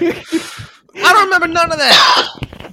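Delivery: slow, high silly voice; goofy high voice. Pretend. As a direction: stretch it out in a goofy voice. Joking denial, far high voice.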